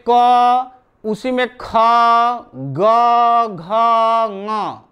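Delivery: drawn-out letters क, ख, ग, घ, ङ with pauses between; letter-sound recitation. Shown as a demonstration. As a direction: recite क, ख, ग, घ, ङ one by one as held sounds. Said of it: "इस ध्वनि का जो उतार चढ़ाव हो रहा है".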